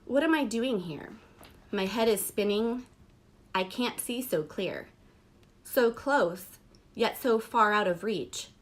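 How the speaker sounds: measured poetry reading, pausing after each line; spoken-verse delivery with falling line endings; poem recitation. Acted. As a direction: read it aloud as a poem, line by line. Reads a poem aloud.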